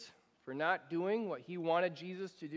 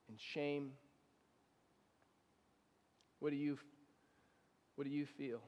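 guided reflection; 4 semitones lower than usual. Acted. Pastor guiding bowed heads, hushed and prayerful.

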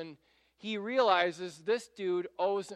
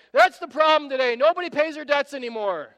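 higher, louder righteous ranting; seething rage; 8 semitones higher, 13 dB louder than usual. Retold or imitated. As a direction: rant like an indignant moralizer. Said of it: "seething with rage".

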